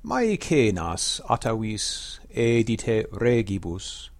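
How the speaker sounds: Maecenas atavis edite regibus declaimed slowly, every quantity and pause given weight; Latin verse recitation. Shown as a demonstration. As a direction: recite the opening line as poetry, slow and measured. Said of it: "I'm gonna try and bring that out".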